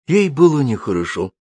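ordinary delivery, nothing marked

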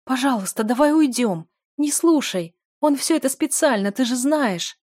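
panicked tearful plea; desperate pleading. A narrator's reading. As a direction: plead urgently to leave. Del begs him to leave.

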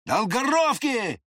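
high, slow, loud near-shout; threatening almost-yell. A narrator's reading. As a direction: bark the name at him with menace. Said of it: "почти прокричал".

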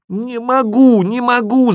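high, loud cry of despair; desperate shout. A narrator's reading. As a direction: cry out helplessly at high pitch. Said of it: "закричал я отчаянно".

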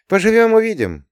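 sly conspiratorial wink in the voice; hinting at a secret plan. A narrator's reading. Hero winks slyly at the revizor, conspiratorial. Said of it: "заговорщицки подмигнул я".

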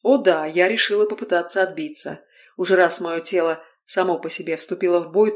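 usual speaking voice

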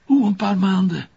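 luider en hoger, ongelovige uitroep; verbijsterd. Acted. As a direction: sla achterover van verbazing. Man hoort het ongelooflijke nieuws. (ongelovige uitroep tegen zijn vrouw)

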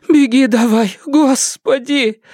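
high, exasperated anxious plea; agitated urging. A narrator's reading. Agitated mother hurrying son-in-law into hiding, high urgent voice. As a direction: urge him off high, drawing out the exclamation. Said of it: "От волнения матушка".

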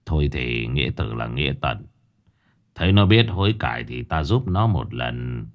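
put-on old master deciding to help; old man sighing. (ông Hiển thở dài, giọng trầm cam chịu)

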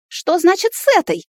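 high shrieking outrage. A narrator's reading. Girlfriend shrieks at the granny, high and outraged. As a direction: squeal it in indignation. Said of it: "взвизгнула Ната".

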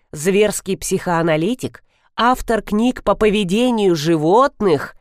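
lightly voiced pompous advertisement; ad read. A narrator's reading. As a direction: proclaim it like a showy poster. Reading a grand advertising screen.

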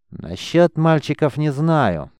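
медленно, с напускной важностью, выше обычного; глубокомысленно. A narrator's reading. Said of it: "глубокомысленно произнёс Десятник". (глубокомысленно, врастяжку)

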